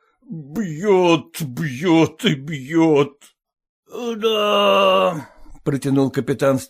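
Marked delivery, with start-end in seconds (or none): none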